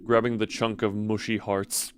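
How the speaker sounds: even storyteller read, no laugh; steady narration. Acted. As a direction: keep the narrator voice level. First take, narration.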